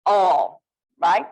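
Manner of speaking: New England accent. Shown as a demonstration. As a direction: say "All" as a New Englander would. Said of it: "New England area?".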